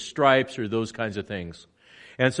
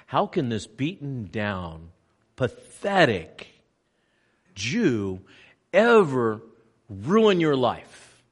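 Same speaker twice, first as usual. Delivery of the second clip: slow, scornful, louder at the end; mocking Pilate; 3 dB louder, slower than usual. Pilate mocking Jesus to the crowd, scornful. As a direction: sneer at the beaten man. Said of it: "Pilate, in essence, says".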